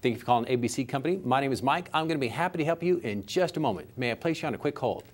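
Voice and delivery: friendly, unhurried phone greeting; caring. Shown as a demonstration. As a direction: answer with care and warmth. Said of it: "that may have taken me, what, two more seconds".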